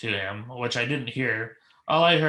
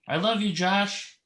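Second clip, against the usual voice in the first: high, drawn-out mock yell from the crowd; mildly yelled, pitched-up heckle; retold yell; 7 semitones higher, slower than usual. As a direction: imitate a fan calling out, stretched and raised. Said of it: "this lady yells out".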